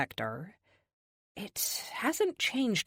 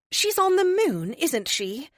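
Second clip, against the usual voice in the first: serene higher oracle, gently amused; 10 semitones higher, 5 dB louder than usual. Acted. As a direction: speak like a calm ancient seer. Oracle character voice.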